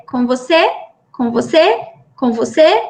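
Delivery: lightly voiced echo of a question, each repeat rising; imitated echolalia. Therapist imitates an autistic child echoing her question, lightly voiced echolalia. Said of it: "ele tem uma ecolalia".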